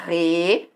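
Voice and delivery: "Represen-" em sílabas separadas, re-pre-zen; pronúncia silabada. Shown as a demonstration. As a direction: separe "Represen-" com pausa após cada sílaba. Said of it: "Ó a representação fonética dele". ("Represen-" silabado, re, pre, zen)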